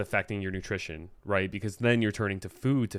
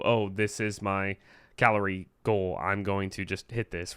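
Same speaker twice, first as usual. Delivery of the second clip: robot voice. Shown as a demonstration. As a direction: speak like a robot. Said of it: "I'm trying to talk in a robotic voice".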